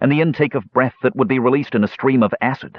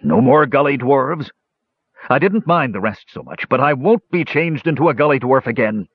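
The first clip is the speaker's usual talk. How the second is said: higher-pitched pleading dragon; eager dragon; 5 semitones higher than usual. A narrator's reading. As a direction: bargain eagerly in the dragon's raised voice. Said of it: "said the black dragon eagerly".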